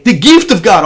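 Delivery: lightly imitated Egyptian accent. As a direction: quote the coworker's catchphrase in his Egyptian accent. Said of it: "He would say".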